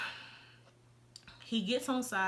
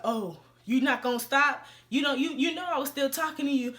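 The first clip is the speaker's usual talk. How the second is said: retold yelling; 3 semitones higher, 5 dB louder than usual. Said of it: "just yelling".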